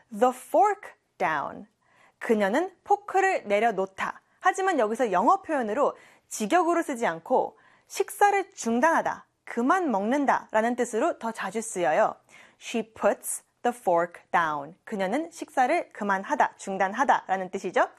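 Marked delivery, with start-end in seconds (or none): 0.1-1.7 "I put my bag down" said word by word; very slow model. Shown as a demonstration. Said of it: "puts가 되겠죠". 12.6-14.7 "I put my bag down" said word by word; very slow model. Shown as a demonstration. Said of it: "같이 해볼게요".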